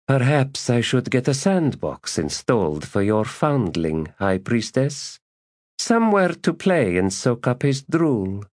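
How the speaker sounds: high, haughty scowling voice; scowling disdain. Acted. Lady mocking the priestess's foundling, high and scowling. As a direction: sneer at the foundling like dirt. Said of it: "she scowled and said".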